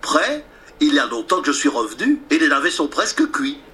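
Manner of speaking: a hint of a triumphant little pig; cheeky little pig. Pig tells the wolf he is already back, lightly cheeky.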